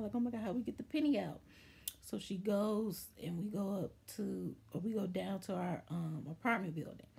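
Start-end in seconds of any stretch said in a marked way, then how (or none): 0.1-1.4 fast, mildly panicked quote; retold freak-out. Family wondering how to get the penny out, mild retold panic. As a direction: rush it like worried onlookers. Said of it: "they're freaking out".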